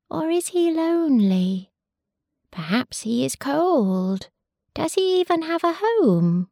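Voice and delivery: high, small chick voice, wondering; baby sparrow voice. Acted. Baby sparrows asking their mothers about the wolf, high chick voice. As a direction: pipe it up high like a baby bird. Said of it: "they asked their mothers".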